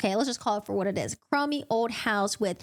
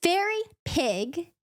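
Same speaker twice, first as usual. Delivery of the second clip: retold yell; 7 semitones higher, much slower than usual. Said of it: "And she yelled".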